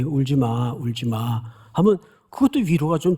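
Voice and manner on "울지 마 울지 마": gentle comfort. Retold or imitated. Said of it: "누가 내 곁에 와서 슬그머니".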